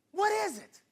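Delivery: high shouted question; preached shout. Real, not acted. Preacher pressing the congregation, high shouted question. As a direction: fling the question at the crowd.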